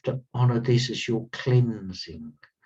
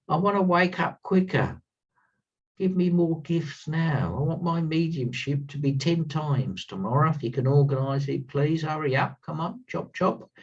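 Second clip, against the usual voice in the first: mock-whiny, higher pushy plea; impatient demand; 5 semitones higher than usual. Teacher mimicking eager students demanding fast gifts, impatient. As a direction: ham up a student nagging for quick results. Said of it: "And you lot all say".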